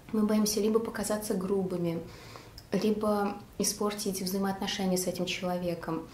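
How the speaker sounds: chewing while talking; speaking between bites; mouth full of macaron. Real, not acted. Seen 1: Bites the macaron at -1.0, then chews with lips pressed, still holding it.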